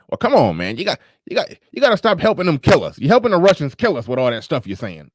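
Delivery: high, agitated mock rant; imitating RBR. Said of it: "he was like".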